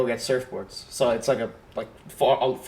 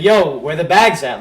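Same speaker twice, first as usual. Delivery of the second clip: slow, louder mock call; retold scream; 2 semitones higher, 6 dB louder, slower than usual. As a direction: imitate hollering across a beach, only half-shouted. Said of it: "Like, I scream again".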